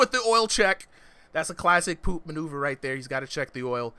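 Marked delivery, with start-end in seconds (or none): 0.0-0.9 excited call. Real, not acted. Hype call on the move.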